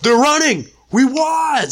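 high, loud mock cheer; retold victory shout. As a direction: holler the news across a battlefield.

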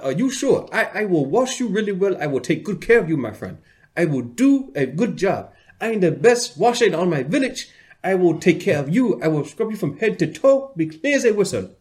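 high, loud mock African accent, slowed; imitating an African accent. African accent imitating the nurse who insists on washing him. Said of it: "he had an African accent".

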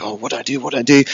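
hushed mock panic that climbs. Twelve-year-old on the loch, fretting in mock panic. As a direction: replay the scared kid's fretting. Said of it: "I started to panic".

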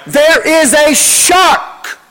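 slow, drawn-out shout through laughter; slow laughing shout. Retold or imitated. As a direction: stretch out the warning, laughing. Warning girls about a shark.

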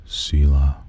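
low, close-to-the-mic ASMR murmur. Shown as a demonstration. Host showing off his voice, low ASMR delivery. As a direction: play at an intimate ASMR voice. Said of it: "My A S M R voice".

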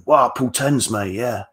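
light Cockney imitation of a boastful pickup coach; mock Cockney accent. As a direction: put on a cheeky Cockney voice for a send-up. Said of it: "a, a Cockney accent".

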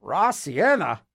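raw sienna drawn out very slowly in disbelief; puzzled slow repeat. Shown as a demonstration. Baffled by the crayon name, repeating raw sienna slowly. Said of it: "That's so bizarre".

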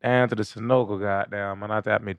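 put-on slow, stretched Georgia accent. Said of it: "Sound like a Georgia nigga".

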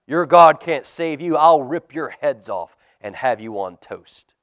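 Goliath bellows at God's people; bellowing giant. Acted. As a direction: bellow the threat down the valley. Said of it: "Goliath bellowed".

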